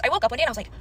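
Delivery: ordinary talk, nothing marked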